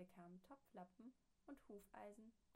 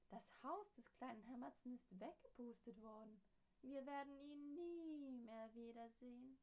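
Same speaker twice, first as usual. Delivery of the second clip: lamenting townsfolk; 4 semitones higher, 3 dB louder than usual. Acted. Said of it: "sagten sie".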